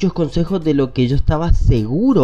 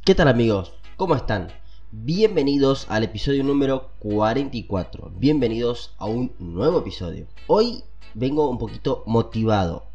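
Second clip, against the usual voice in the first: congested cold voice; talking with a head cold; stuffy nose; 3 semitones lower, 4 dB quieter than usual. Real, not acted. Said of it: "estoy resfriado, estoy congestionado". (voz resfriada y tapada)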